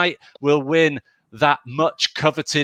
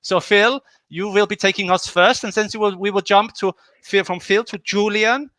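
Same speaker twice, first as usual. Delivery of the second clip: lightly put-on German accent, hosting; half-hearted German accent for the round; mock German accent; 3 semitones higher than usual. Host running the German round order, in a mock German accent. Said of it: "the slightly racist accent".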